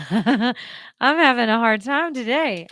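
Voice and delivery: slow, laughing through it; laughing, breathless. Real, not acted. Laughing breathlessly at herself after talking too long. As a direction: laugh it off while winded. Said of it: "I'm out of breath".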